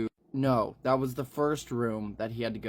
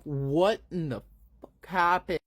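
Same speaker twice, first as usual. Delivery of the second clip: shocked demand; 6 semitones higher, 3 dB louder than usual. Acted. Bodyguard bursts in on the scene.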